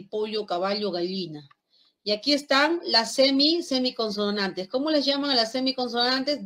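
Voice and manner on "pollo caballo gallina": pollo, caballo, gallina with a distinct palatal ll. Shown as a demonstration. Lima teacher demonstrating the Andean double L. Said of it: "debería ser así".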